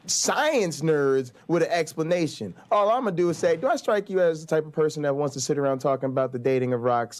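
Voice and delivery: hushed, teasing jab at the science nerds; mocking chat. Real, not acted. Host teasing viewers in chat, soft mocking tone. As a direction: needle the chat in a soft, sly voice. Mocking chat's hurt feelings.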